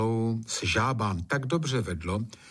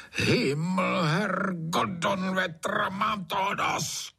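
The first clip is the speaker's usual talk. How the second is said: roaring curse; 10 semitones higher, slower than usual. A narrator's reading. Trautenberg woken by frogs, roaring curses. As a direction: bellow it like a furious landlord. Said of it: "zařval Trautenberg".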